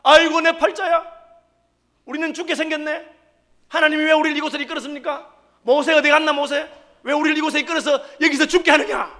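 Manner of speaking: imitating a grumbling crowd crying to God; whining lament. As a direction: wail and complain, hammed up. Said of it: "하나님 듣고 계시다가".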